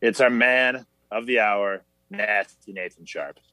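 game show host intro; lightly hammed-up show host. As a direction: welcome the audience like a TV host. Hosts a mock show intro.

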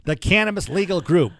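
loud put-on sportscaster voice; Howard Cosell. Shown as a demonstration. Host plugging legal group in a sportscaster impression. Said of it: "I don't like that voice".

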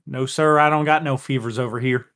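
polite Southern twang; country accent. Acted. Player assures the doc he has no fever, country accent. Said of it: "why couldn't you have this country accent".

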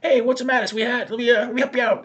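high, loud hammed-up sweet talk; mock smooth flirt. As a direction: play the sleazy charmer chatting her up. Robber voiced flirting with witness.

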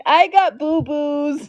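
put-on lightly babyish, drawn-out whine; mock whining. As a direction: draw it out like a hurt little kid. Mocks him as a whiny child.

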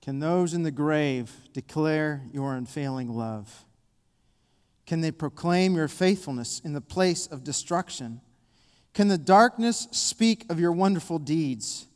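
deliberate psalm questions with pauses between; slow reading. Real, not acted. Preacher reads the psalmist's questions to God, slowly. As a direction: build each question on the last, unhurried. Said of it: "I want to read them slow".

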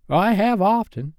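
very high, simple-minded sidekick; bosun character. A narrator's reading. Smee remarking to his captain, high bosun voice. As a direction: pitch it right up for the bosun.

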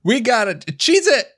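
high, sharp call to flee; urgent exclamation. Acted. Player answers what to do against the entity, urgent exclamation.

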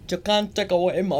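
mock Scottish rallying cry; Scottish accent. Co-host defending flying naked, Scottish accent. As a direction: declaim it with a put-on Scottish accent. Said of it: "Sorry, that guy was Scottish".

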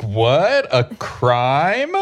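high, loud startled gasp of words; shocked disbelief. Acted. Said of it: "Duncan is looking around like".

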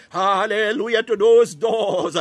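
ecstatic cry. Real, not acted. Climax of a fervent prayer.

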